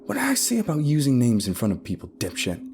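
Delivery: high start, dropping on the insult; scolding. A narrator's reading. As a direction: tell off a careless partner. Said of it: "hear her scold the other guy".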